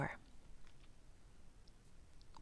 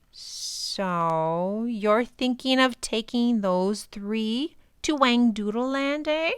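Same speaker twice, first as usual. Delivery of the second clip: a stretched, echoing creature voice, a touch higher; raspy stretched voice; 3 semitones higher, 3 dB louder, slower than usual. Acted. Strange visitor teasing the professor about his trip, stretched echoing voice. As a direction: let each word hang in the air. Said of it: "a raspy whisper that seemed to hang".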